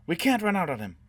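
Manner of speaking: high, loud cry of refusal; desperate protest. A narrator's reading. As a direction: protest loudly, pitch way up. Protesting again during escape.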